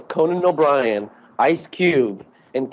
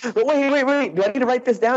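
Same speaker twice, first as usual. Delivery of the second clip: quoting Conan; 8 semitones higher than usual. Retold or imitated. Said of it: "And he goes".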